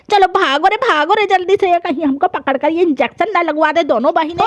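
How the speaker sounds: a cranky dadi just woken up, scolding; grumpy old grandmother. Acted. Grandmother runs from injection. (गुस्सैल बूढ़ी दादी की आवाज़)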